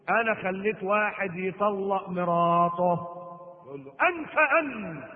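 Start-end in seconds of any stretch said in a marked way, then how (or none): 0.1-3.2 drawn-out, sing-song boast; little devil proudly announcing his feat; proud minion devil. Acted. Proud little devil reporting to Satan. 3.9-5.0 high, drawn-out cry of approval; single out the star pupil with slow, rising glee; hammed-up devilish delight; delighted Satan. Satan delighted with his best devil.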